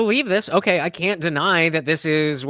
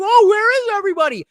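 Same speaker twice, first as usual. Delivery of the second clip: mock disappointed self; 14 semitones higher, 7 dB louder than usual. Host imitating himself in empty room.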